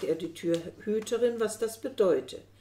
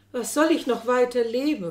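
loud, anguished lament; 5 semitones higher, 9 dB louder than usual. Acted. Chariklia mourns Kalasiris, crying out her loud lament. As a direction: cry it out as a despairing question. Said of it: "fuhr sie fort zu klagen".

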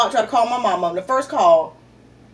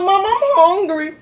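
put-on whiny kid; 8 semitones higher, slower than usual. Kid whining to mom.

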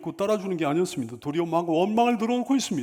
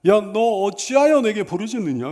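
loud rebuke from God; scolding; 6 dB louder than usual. Acted. God challenges Moses for crying out, loud scolding. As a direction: scold in God's voice, pushing the question out. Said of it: "이렇게 꾸짖는 말씀이에요".

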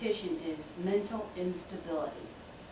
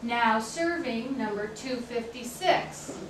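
announcer call; 3 semitones higher, slower than usual. Acted. Clerk calls numbers aloud.

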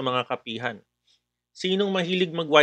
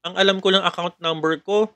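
scam caller; 4 semitones higher than usual. Acted. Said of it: "that customer will call again".

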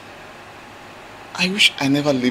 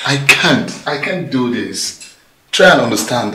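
louder, anguished refusal; raised anguished no; desperate refusal; 7 dB louder than usual. Acted. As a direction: push back loudly, begging understanding.

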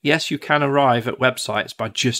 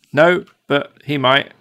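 slow, louder mock router; 2 semitones higher, 6 dB louder than usual. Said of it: "that router will go".

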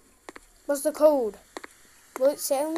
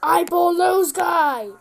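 excited; 4 semitones higher, 8 dB louder, much slower than usual. Real, not acted. Monster appears again.

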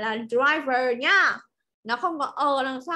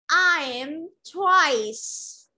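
I am twice said slowly; teacher models sentence four for students; very slow model reading; 2 semitones higher, much slower than usual. Shown as a demonstration. Teacher models very slowly. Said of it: "Do you like dry wine?".

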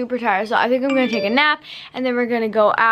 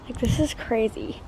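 quiet but clear; 3 semitones lower, 8 dB quieter than usual. Real, not acted. Talking quietly due to neighbors.

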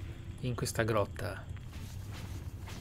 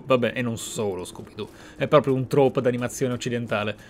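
ordinary delivery

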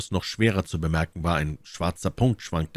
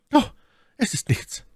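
high falsetto lady; My Lady, dismissive. A narrator's reading. Lady reassuring Felton about her hands, high and light. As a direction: brush it off in a high feminine voice.

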